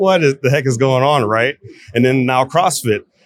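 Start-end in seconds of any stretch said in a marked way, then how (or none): none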